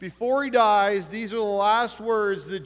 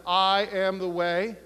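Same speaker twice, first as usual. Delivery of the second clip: preachy quote. Retold or imitated. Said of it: "I didn't say it quite this preachy".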